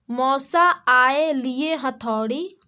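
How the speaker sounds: put-on slow sing-song reading of a children's rhyme; rhyme recitation. Shown as a demonstration. Teacher to kids, reciting the rhyme slowly. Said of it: "okay, देखिए".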